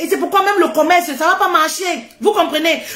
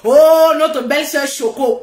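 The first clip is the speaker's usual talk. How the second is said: teasing in-laws; slower than usual. Retold or imitated. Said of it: "ils taquinent que".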